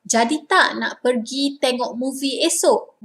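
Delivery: casual Malay question checking plans; asking for confirmation. Shown as a demonstration. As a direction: ask a friend if the plan is still on. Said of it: "This is how you ask when you want confirmation".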